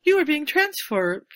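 cool female robotic voice. Retold or imitated. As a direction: speak like an automated phone line. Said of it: "cool female ... somewhat robotic voice".

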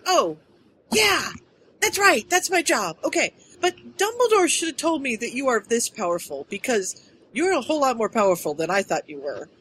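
a hint of a sheepish realisation; lightly voiced Kimmy. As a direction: act out a dawning, sheepish oh-right. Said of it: "And Kimmy's like".

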